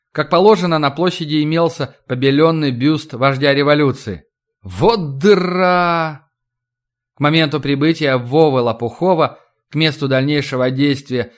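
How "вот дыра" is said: slow, drawn-out groan of dismay; dismayed exclamation. A narrator's reading. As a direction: sigh it out: what a dump. Narrator's exclamation at backwater town.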